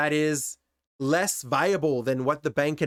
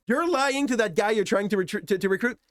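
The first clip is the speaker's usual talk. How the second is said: higher, pressing conscience; insistent inner voice; 5 semitones higher than usual. Retold or imitated. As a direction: push the accusation gently. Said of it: "a hitch that was telling me".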